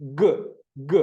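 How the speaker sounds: short isolated "ഗ", the hard g sound; crisp teaching demo of "ഗ"; letter sound ഗ. Shown as a demonstration. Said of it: "ജിയുടെ sound".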